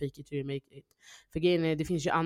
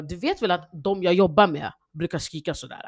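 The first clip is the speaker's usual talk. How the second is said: retold motherly telling-off, somewhat louder; imitated angry mum; 3 semitones higher, 5 dB louder than usual. Mum comparing her kid to patients, mildly angry imitation. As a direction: play a mildly annoyed mum. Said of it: "Min mamma blir så arg".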